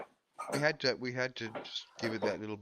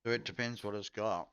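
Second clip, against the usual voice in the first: chewing while talking; 3 dB quieter than usual. Real, not acted. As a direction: mouth full while talking. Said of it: "Sorry, I'm munching away".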